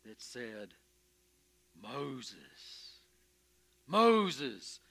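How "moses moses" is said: God calling from the bush, rising then dropping away; a hint of a divine boom. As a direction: call his name as a great unseen voice. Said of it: "a booming voice".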